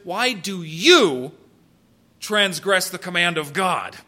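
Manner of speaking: slow, pointed challenge with a pause after YOU; blunt, deliberate accusation; pulling no punches. Acted. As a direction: put the question straight to them, weighing each word. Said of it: "without pulling any punches says".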